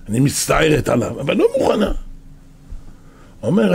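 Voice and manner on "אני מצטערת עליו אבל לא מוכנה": a nurse laughs off the judge's request; laughing refusal. Acted. The nurse answers the judge, laughing and refusing.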